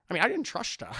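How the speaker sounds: smug slushy-s father impression; Sean Connery. Father teases son about Elsa, smug impression. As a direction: say it through a little smile. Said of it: "Sean Connery gets this little smile".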